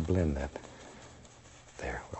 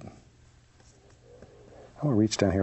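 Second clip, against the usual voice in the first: very slow aside; 3 semitones higher, much slower than usual. Real, not acted. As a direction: stretch the words out slowly. Drawn-out aside while reaching.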